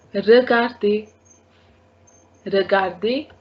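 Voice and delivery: "regarder" said ruh-gar-day. Shown as a demonstration. Teacher showing the E R ending, "regarder" as ruh-gar-day. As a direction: end "regarder" on ay, no final R. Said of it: "they are also having A sound".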